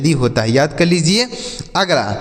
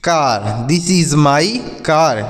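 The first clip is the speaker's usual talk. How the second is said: very slow; much slower than usual. Shown as a demonstration. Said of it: "जैसे".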